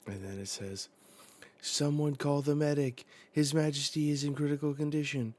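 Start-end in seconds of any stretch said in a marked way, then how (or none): 1.6-5.3 high, louder cry for help; urgent call. Acted. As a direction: call out for a medic in alarm. Acting out urgent call for medic.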